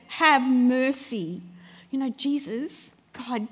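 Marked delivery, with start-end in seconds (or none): 0.1-1.4 slow, drawn-out plea; crying out. Acted. Believer cries out to Jesus, slow and pleading. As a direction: stretch out the plea for mercy. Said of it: "When you've cried out to him".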